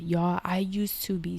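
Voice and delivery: unvoiced whisper, slow. Real, not acted. Telling viewers her old fear of death, in a slow whisper. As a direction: hush it like a secret confession.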